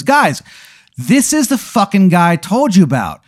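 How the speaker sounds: high, eager call to the gang; rally the others with high excitement; excited announcement. Acted. The tough inmate tells the others who just arrived, high and excited.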